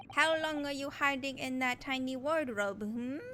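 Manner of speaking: interrogator with a put-on Russian accent; taunting Russian accent. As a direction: question them in a rough attempt at Russian accent. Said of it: "Should I attempt a Russian accent?".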